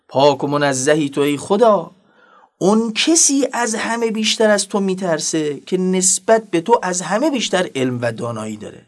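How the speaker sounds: ordinary talk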